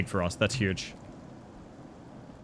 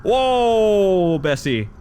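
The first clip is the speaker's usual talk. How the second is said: loud hammed-up cowboy yell; cowboy calming a horse; 4 semitones higher, 5 dB louder, much slower than usual. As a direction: holler whoa like reining in a horse. Reining in imaginary horse.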